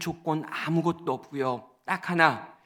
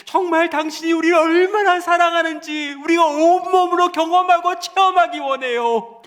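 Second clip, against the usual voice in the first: high, loud pleading prayer; fervent prayer; 12 semitones higher, 10 dB louder than usual. Acted. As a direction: cry out to Jesus in longing.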